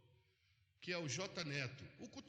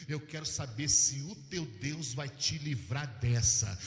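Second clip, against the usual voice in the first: loud defiant challenge; 3 semitones lower, 9 dB louder, slower than usual. Retold or imitated. Witch's challenge, preached loudly.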